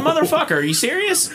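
high, loud, laughing outburst; a laughing shout of disbelief; mock outraged yell.

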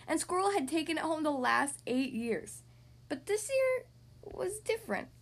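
put-on animated read-aloud to young kids; story narration. Podcast host reading to young kids, story narration. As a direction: read it like a lively picture-book narrator. Reads picture book to children.

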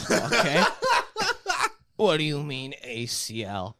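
lightly imitated indignant comic; drawn-out mock disbelief, pausing for the laugh; Sebastian. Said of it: "that's enough, Sebastian".

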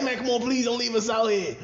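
high, loud mock begging; whiny high plea, hammed up; pleading friend. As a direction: imitate desperate pals begging. Friends beg again.

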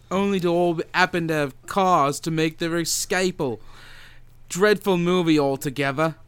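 reading a review in a light put-on British accent; a mock British reviewer sneering at the film. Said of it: "I'm gonna do this with an accent".

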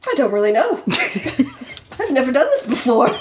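halting, nervous admission with a laugh; hesitate, then blurt the end; mildly nervous, broken by pauses. Acted. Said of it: "he said nervously".

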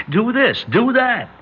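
high, loud mock caller voice; lightly ape the pushy callers; mocking the kook callers; mocking crank callers. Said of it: "kook and crank calls".

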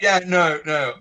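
quick British explanation; British accent. Retold or imitated. Actor fibbing to the director, British accent. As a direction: rattle off a cover story in British accent. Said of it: "I do the whole thing as a Brit".

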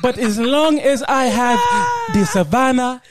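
slow, emphatic put-on African accent. Villager content with his savannah, African accent. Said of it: "got to do that accent".

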